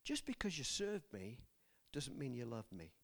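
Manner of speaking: soft, unvoiced whisper; God whispering gently in his spirit; God's hushed voice. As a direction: breathe the words like an inner voice. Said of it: "I felt God say to me".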